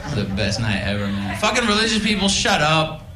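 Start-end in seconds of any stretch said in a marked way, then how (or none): 1.4-3.0 mock rant. Comic on stage yelling at religious people, mock rant. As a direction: rail at them for laughs.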